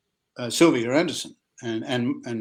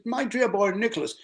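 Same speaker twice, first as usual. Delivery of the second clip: put-on posh old actor; 8 semitones higher than usual. Actor friend greets him.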